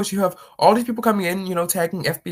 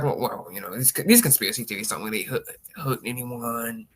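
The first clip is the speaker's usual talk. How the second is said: mocking dismissal; 6 semitones lower than usual. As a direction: shrug it off, dragging out "anyone". Mocking conspiracy defenders.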